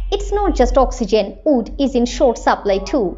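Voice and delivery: slow, careful British newsreader English; imitating a British newsreader, very slow; BBC news accent. Shown as a demonstration. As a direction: read it like a BBC news anchor. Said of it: "সেইভাবে একটা sentence তোমাদেরকে বলি".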